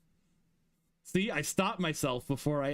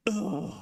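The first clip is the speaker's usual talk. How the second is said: drawn-out "ugh", pitched up; disgusted groan; 4 semitones higher than usual. Retold or imitated. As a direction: groan at having to go back. Disgust at going back to slow speed.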